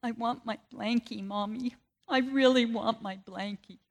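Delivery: put-on a light take on a whimpering little boy asking for his blanket; lightly voiced teary toddler; crying toddler. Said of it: "he started crying".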